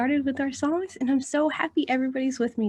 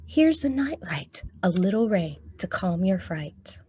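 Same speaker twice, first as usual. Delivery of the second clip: storytime picture-book reading; reading to children; 3 dB louder than usual. Acted.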